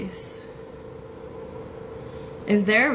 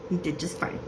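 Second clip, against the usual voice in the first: softer imitation of him; his way of talking; 2 semitones lower, 7 dB quieter than usual. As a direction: echo his soft, understated delivery. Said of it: "That's how he's talking".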